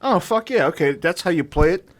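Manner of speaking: lightly voiced alien. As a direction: play an alien puzzling out the record, lightly. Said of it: "if some intelligent life fucking found the Voyager".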